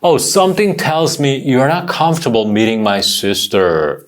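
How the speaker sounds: very slow, every word clear; slow model sentence. Shown as a demonstration. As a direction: model it slowly for students. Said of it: "한 번 더". (천천히 또박또박 시범)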